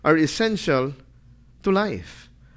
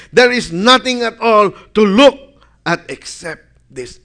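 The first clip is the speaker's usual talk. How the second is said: loud, higher, longing list of Egyptian food; whining Israelites; 5 semitones higher, 6 dB louder than usual. Acted. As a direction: crave the cucumbers and melons aloud. Voicing the weeping, greedy Israelites.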